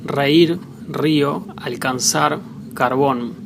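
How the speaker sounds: "reír, río" with strong trilled first R, "alcanzar, carbón" with soft R. Shown as a demonstration. Spanish teacher showing both R sounds, "reír, río" strong, "alcanzar, carbón" soft. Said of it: "can sound as soft or strong".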